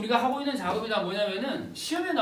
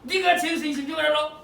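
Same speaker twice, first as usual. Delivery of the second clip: acted loud, high drunken yell; hammed-up aggrieved shouting; drunken crying outburst; 6 semitones higher, 6 dB louder than usual. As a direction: lash out like a wailing drunk. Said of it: "이러면서 막 울어".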